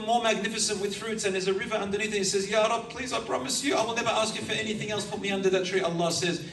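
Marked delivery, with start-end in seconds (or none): 2.5-5.8 high-pitched, eager begging; high pleading. Acted. The last man begs his Lord for the third tree, high and eager. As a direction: beg like a child who wants one more thing.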